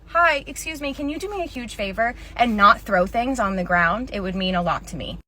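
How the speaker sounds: put-on customer-service sweetness; polite request. Worker asking the child to stop throwing things, overly polite. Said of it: "I say something to the child".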